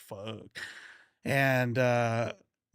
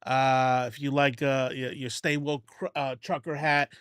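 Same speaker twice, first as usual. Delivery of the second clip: put-on country accent. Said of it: "with the country accent".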